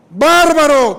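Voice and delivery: loud, stretched-out gasp of amazement; astonished exclamation. Real, not acted. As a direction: blurt it out in shock. Exclamación de asombro. (exclamación de asombro, fuerte y alargada)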